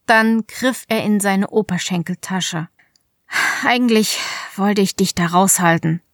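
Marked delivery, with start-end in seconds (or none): 3.6-6.0 cracking voice. Acted. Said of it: "sagte er mit brüchiger Stimme".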